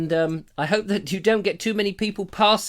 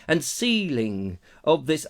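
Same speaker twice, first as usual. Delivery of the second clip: dramatic fashion; 4 semitones higher than usual. Acted. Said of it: "I'm doing this in a dramatic fashion".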